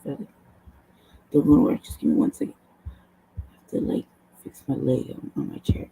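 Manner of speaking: usual speaking voice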